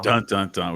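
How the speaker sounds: spoken suspense-music "dun dun dun"; playful cliffhanger sound; mock dramatic sting. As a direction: imitate an ominous soundtrack sting. Mock suspense sting after tariffs come up.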